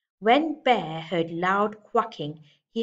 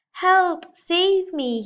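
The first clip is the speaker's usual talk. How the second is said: much higher and louder panicked cry for help; frantic monkey cry; 11 semitones higher, 8 dB louder, much slower than usual. Acted. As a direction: shriek for rescue like a trapped monkey. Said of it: "he chattered".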